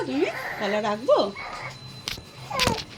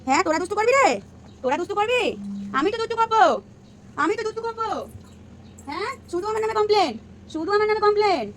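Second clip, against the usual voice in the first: put-on higher, childlike sing-song complaint; baby voice; 5 semitones higher, much faster than usual. Mother voicing her baby's grumble, higher sing-song.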